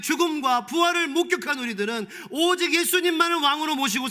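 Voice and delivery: a rising sermon climax; fervent preaching. Acted. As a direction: preach it with full conviction. Passionate preaching about Caesar.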